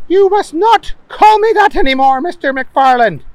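high, loud stern rebuke. Acted. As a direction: scold him sternly. Professor not amused.

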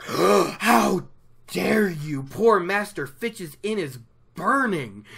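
gasp, then a loud, mock-outraged how dare you; retold outrage with a sharp gasp; indignant. Egwene scolding Lan over the burning inn, loud mock indignation. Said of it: "Egwene is indignant".

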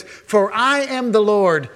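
slow, weighty "I am the Lord"; solemn declaration. Acted. Preacher quoting God to the church, slow and solemn. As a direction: proclaim it slowly like God's own word.

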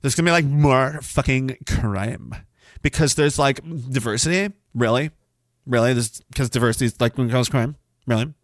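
lightly voiced sneering skeptic; mock sneering critic. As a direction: scoff like a smug critic. Imitating a dismissive critic.

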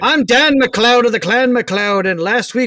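bad Scottish accent; a clumsy Scottish brogue. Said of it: "can't do a Scottish accent".

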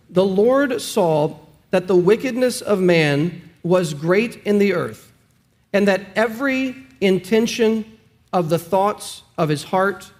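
slow, measured reading of the verse; slow scripture reading. Shown as a demonstration. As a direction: read it slowly and reverently, word by word. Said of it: "This is God's word".

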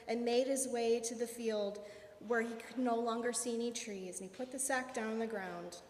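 ordinary delivery

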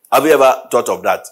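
normal talking voice

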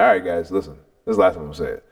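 low, softened final warning; calm warning. Retold or imitated. Partner to squabbling kids, calmly laying down a last warning. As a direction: keep it low and controlled, an understated warning. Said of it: "I'm gonna be calm about it".

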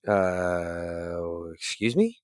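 long low uh, then rising question; incredulous. Retold or imitated. Refused traveler answers the airline agent, incredulous. Retold reaction to being refused.

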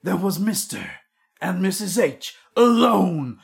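slow fairy-tale opening; once-upon-a-time storyteller; storybook narration. Acted. Husband framing the podcast as a fairy tale, storyteller voice. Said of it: "You're building this right up".

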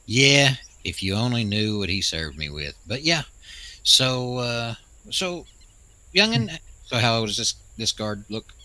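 put-on old prospector. Old man plays grumpy elder.

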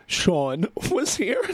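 laughing through the name, slow. Real, not acted. Host laughing as he wishes his Eagles friend Sean were here. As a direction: chuckle mid-line, savouring it.

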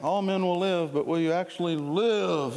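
lightly voiced film hero's challenge; Braveheart. Preacher quoting a film to the congregation, lightly imitated hero. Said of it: "like, Braveheart said it".

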